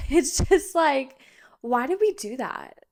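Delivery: laugh, then whisper the question. Real, not acted. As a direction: giggle at your own silliness. Laughing at staying out late.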